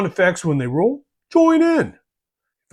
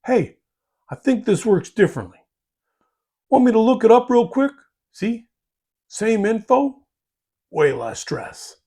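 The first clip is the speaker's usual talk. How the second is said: friendly helpful; 4 semitones higher than usual. Retold or imitated. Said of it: "Better approach".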